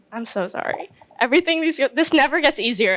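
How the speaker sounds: choked up, fighting back tears; holding it together through real emotion; emotional. Real, not acted. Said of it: "I'm a little nervous and emotional".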